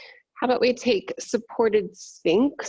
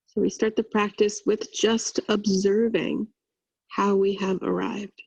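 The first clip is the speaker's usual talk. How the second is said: even, unhurried meditation voice with long pauses; guided meditation. Acted. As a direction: guide them through a body scan, leaving long silences.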